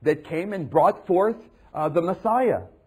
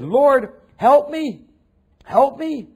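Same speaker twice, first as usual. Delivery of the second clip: high, loud pleading cry; woman crying out for help; desperate plea; 8 semitones higher, 6 dB louder, slower than usual. Retold or imitated. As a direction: beg as if desperate. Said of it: "and she said".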